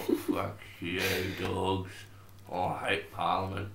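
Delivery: talking around a cigarette; mumbled past a cigarette; cigarette in mouth. Real, not acted. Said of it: "cigarette in my mouth".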